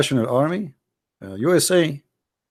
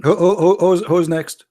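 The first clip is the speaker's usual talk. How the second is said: mock nervous stammer; 4 semitones higher, 4 dB louder than usual. Host stammering the call for the next caller on purpose. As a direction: stutter it out as if too nervous to ask. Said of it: "as you see, I'm ve-, ve-, very nervous".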